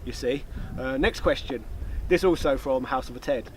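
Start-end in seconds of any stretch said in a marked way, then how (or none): 0.0-0.4 low, quiet scheming villain. Pretend. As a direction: purr it like a cartoon villain. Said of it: "talk to you like a villain".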